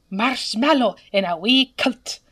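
"marshmallow in a wee kilt" in a light put-on Scottish accent; mock Scottish marshmallow. Shown as a demonstration. Demonstrating how a true Scot says it, light mock Scottish accent. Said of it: "if they're truly Scottish".

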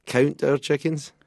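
Scottish accent. Real, not acted. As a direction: correct "count" emphatically in Scottish. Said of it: "having trouble with your Sc-, Scottish accent".

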